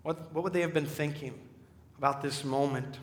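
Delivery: ordinary delivery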